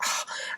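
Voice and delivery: breathy, effortful sigh; winded sigh; acted tired sigh. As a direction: let out a puff of exertion. Acting out sitting down while pregnant.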